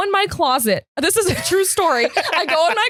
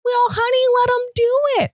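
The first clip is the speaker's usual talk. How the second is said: high-pitched coaxing dad; imitated dad; 7 semitones higher than usual. Dad urging daughter to let him plunge, imitated high coaxing. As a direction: coax in a raised mock-dad voice. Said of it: "my dad's going".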